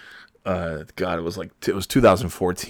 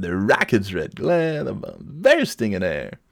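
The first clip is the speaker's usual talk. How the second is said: mock announcer. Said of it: "Which, of course, I did".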